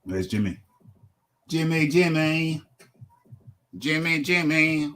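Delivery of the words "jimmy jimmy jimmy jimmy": long, stretched summoning call. Real, not acted. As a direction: call out for someone who is not answering. Calling for a missing co-host.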